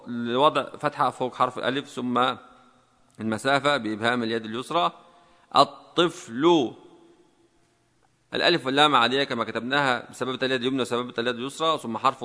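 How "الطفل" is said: word stretched out syllable by syllable; drawn-out dictation word; slow dictation. Shown as a demonstration. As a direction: dictate it at half speed for typists. Dictating the next word to type.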